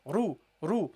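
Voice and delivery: "Ru, ru" with a thick, heavy r; dark, rounded r on "ru". Shown as a demonstration. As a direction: sound out "ru" heavily. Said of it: "so you pronounce it heavily".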